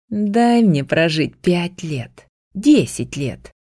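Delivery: медленно, умоляюще; тихо упрашивай, не приказывай; просяще. Acted. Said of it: "Кертис не приказывал, просил". (медленно и просяще)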